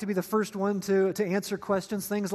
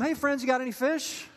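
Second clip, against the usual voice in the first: mild mock shout from the shore; half-hearted holler; calling out; 4 semitones higher than usual. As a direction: hail the boat in a raised pitch. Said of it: "and he screams out to him".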